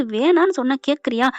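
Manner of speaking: loud, firm scolding question; forceful but not furious insistence; insistent rebuke. A narrator's reading. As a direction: overrule the refusal loudly. Insistent rebuke while forcing ring on.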